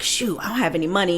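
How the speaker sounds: quick, hushed panic over money; a quick, quiet flash of dread; panicked inner thought. Retold or imitated. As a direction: mutter it fast, like a sinking stomach. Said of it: "you're triggered".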